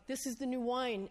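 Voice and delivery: ordinary delivery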